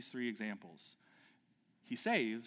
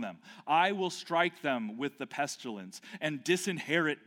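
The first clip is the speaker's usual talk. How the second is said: scripture reading. Shown as a demonstration. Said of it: "I'm just gonna read this".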